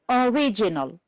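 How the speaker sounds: original with RIG stressed; stress on second syllable. Shown as a demonstration. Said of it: "two syllables before".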